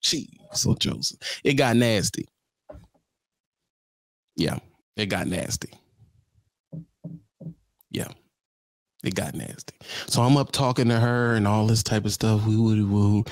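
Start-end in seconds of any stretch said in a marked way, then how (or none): 0.0-1.2 whisper. Real, not acted. Whispered aside. 4.4-9.7 hushed. Real, not acted. Quiet aside.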